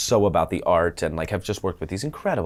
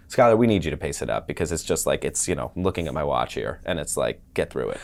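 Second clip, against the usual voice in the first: Michael Mayer; 6 semitones lower than usual. Retold or imitated. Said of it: "Michael Mayer will tell me".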